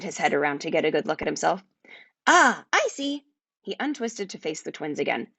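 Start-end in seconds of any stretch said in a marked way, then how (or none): 2.3-3.3 very high, boastful creature voice that fades; proud little dragon. A narrator's reading. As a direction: puff up like a tiny dragon unsure of itself. Familiar looks at himself.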